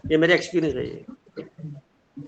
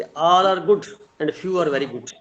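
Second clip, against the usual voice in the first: each word laid out slowly; slow, deliberate phrasing; much slower than usual. Shown as a demonstration. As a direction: say it slowly, as a lesson. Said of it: "हम ऐसे भी तो बोल सकते हैं". (धीमे, साफ़-साफ़ सिखाने के अंदाज़ में)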